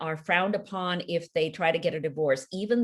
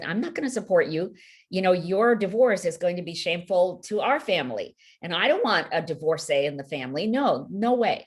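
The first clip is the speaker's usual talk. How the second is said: brisk, louder disapproving sister voice; stern refusal; 4 dB louder than usual. Retold or imitated. Sister telling her she won't support the divorce, brisk and disapproving. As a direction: snap out a flat refusal to her.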